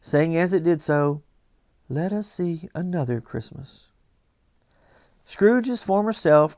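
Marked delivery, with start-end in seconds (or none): 1.9-3.9 gentle. Acted. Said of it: "The ghost smiled thoughtfully".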